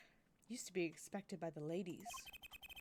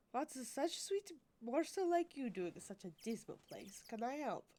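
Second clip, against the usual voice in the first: bad German accent; 3 semitones higher than usual. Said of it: "That's not German, but we're gonna do it".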